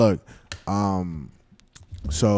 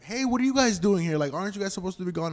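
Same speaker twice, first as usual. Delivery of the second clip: high-pitched fake-surprised call; mock yell, high and drawn, easing off in volume; imitated yell; 11 semitones higher than usual. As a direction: mimic her calling out so someone upstairs hears. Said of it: "she starts yelling, like".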